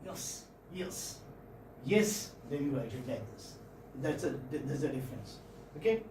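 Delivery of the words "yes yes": quick, quiet "yes, yes"; short, hushed "yes", tossed off quickly; said at speed. Shown as a demonstration. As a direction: say each "yes" fast and unstressed, much softer. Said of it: "If you are saying it with a speed".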